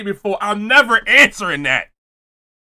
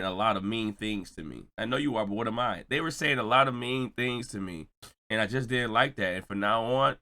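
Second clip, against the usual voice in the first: mock whiny voice; 6 semitones lower, 9 dB quieter than usual. Mocking the plaintiff's complaint.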